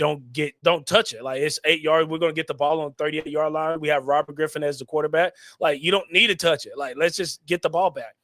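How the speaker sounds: normal talking voice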